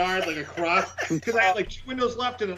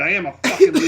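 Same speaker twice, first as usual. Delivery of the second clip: laughing self-mockery; 3 semitones higher, 10 dB louder, faster than usual.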